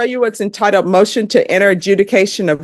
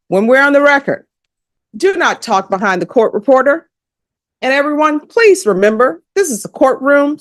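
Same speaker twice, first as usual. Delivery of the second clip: higher-pitched, emphatic courtroom announcement; firm public admonishment; 6 semitones higher than usual. Real, not acted. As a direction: lay down the rule to the whole room, pitched up. Judge instructs noisy courtroom to whisper.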